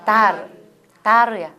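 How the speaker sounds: 다르 with the air flowing out through the final r; air let out. Shown as a demonstration. Teacher demonstrating 다르 to trainees, air released. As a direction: say 다르, releasing the breath on 르. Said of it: "공기를 내보내면서 발음해보세요".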